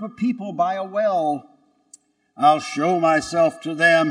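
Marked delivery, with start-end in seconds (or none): 2.4-4.1 donkey's proud thought. Acted. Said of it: "he thought".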